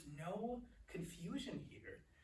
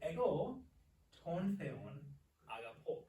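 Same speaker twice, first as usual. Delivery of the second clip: word by word. Shown as a demonstration. Teacher models reordered Greek sentence.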